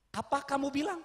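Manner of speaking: high, loud scornful shouting; angry robber. Acted. Robber chief shouts scorn at the crying student. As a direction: scold him with contempt.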